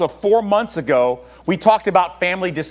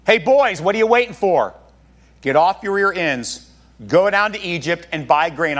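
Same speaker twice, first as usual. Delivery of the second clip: urging father. Retold or imitated. Jacob prodding his sons off to Egypt, mock impatient. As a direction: call out to the lazy boys, pushing them.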